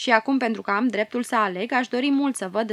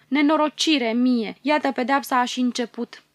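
grief-stricken cry; 3 semitones higher than usual. Acted. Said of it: "cu vocea îndurerată ... strigă".

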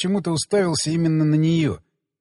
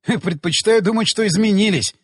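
higher, lightly amused retort; light amusement in a raised pitch; amused, laughing reply; 4 semitones higher, 3 dB louder than usual. Acted. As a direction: lift the voice as if about to laugh. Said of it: "засмеялся я".

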